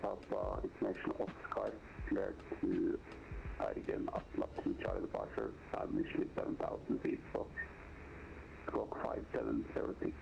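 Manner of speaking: crackly radio voice; over a pilot headset. Real, not acted. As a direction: controller through headset. Controller radio call.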